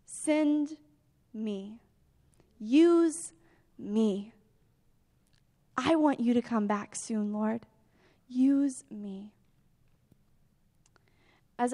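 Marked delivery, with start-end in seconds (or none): 0.0-9.3 a believer offering himself to God in a hushed voice; hushed prayer. Shown as a demonstration. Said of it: "Just tell him".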